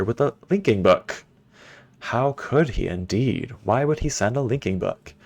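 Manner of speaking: lightly voiced haughty father reading his journal; a hint of a scornful old ruler, unhurried; journal-reading villain. Reads Gehn's journal aloud.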